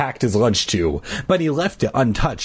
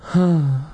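sigh; 4 semitones higher than usual. Acted. Laughter dies into a sigh.

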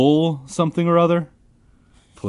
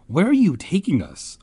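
mock scream; 7 semitones higher, 4 dB louder than usual. A narrator's reading. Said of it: "I screamed".

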